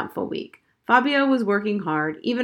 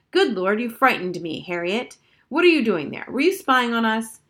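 louder startled mother asking; 3 semitones higher, 4 dB louder than usual. Acted. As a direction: caught off guard, a bit loud.

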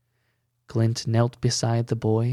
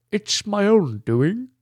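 higher, slow croak of a sobbing man; croaking sob; 8 semitones higher, 3 dB louder than usual. A narrator's reading. Bertrand confessing to Ella, sobbing croak. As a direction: croak it out through tears. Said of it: "croaked a sobbing voice".

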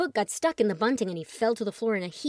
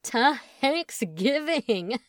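slow, loud drawn-out cheer; 4 semitones higher, 5 dB louder, much slower than usual. Acted. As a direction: shout it like a toast. Chet cheering.

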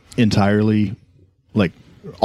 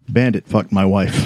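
robot voice. Retold or imitated. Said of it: "he said sad. That wasn't sad enough".

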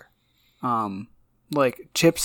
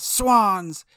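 higher, drawn-out cartoon call; mock yell; 5 semitones higher than usual. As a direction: imitate a comic-strip yell without full volume.

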